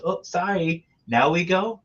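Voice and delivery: high mock ladyboy voice.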